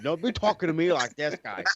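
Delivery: mock Boston accent, pitch climbing. Podcaster mocking a wrestler's accent, hammed-up Boston. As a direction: put on a teasing Boston accent. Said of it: "with that fucking accent".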